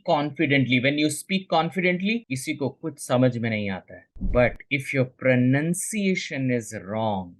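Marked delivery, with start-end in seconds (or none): 5.0-6.3 "pronunciation" with a short nun in the second syllable; correct pronunciation. Shown as a demonstration. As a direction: say "pronunciation" slowly as pro-NUN-see-ay-shun. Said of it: "कुछ लोग इसे प्रोनाउंसिएशन बोलते हैं".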